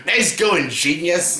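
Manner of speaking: exasperated sarcasm at Edward; sarcastic scolding. Retold or imitated. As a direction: sneer at his overkill. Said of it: "I'm like".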